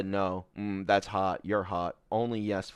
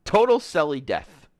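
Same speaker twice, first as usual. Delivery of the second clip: gleeful proclamation; 5 semitones higher, 7 dB louder than usual. Real, not acted. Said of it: "is what I say".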